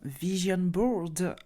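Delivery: slow, self-mocking English accent on "vision board". Shown as a demonstration. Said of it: "avec mon superbe accent anglophone". (accent anglais moqueur sur « vision board »)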